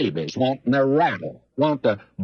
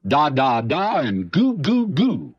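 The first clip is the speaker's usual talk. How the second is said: put-on baby talk; slower than usual. Preacher mocking immature believers with light baby babble. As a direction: coo it like a mimicked infant. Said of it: "All they understood was baby talk".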